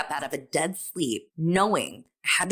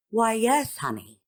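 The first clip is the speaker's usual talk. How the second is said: put-on sweet old man; 5 semitones higher than usual. Old man answering the stranger in the butter aisle, lightly imitated sweetness. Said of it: "the sweet little old man looks me in the eye and says".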